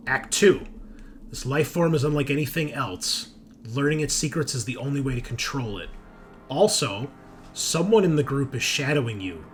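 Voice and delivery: deliberate second-person story reading with pauses; dramatic read-aloud. Acted. Game master revealing a spy's secret agenda, dramatic read-aloud. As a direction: narrate a character briefing.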